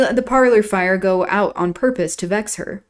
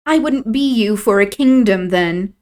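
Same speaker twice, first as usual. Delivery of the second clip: louder, firm emphasis; emphatic declaration; 2 semitones higher, 5 dB louder than usual. A narrator's reading. Catherine rejecting Isabella's feelings, emphatic. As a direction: press every word home. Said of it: "Catherine declared emphatically".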